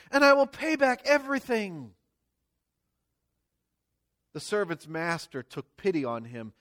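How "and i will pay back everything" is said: high pleading plea, a touch hammed; begging servant. The servant begs his master, pleading high. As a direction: beg the master for time. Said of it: "he begged".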